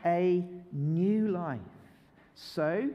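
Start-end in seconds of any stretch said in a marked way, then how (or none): 0.0-1.6 slow drawn-out recital; slow chant with the children; slow group recital. Shown as a demonstration. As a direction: lead the room slowly. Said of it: "can we say that bit together?".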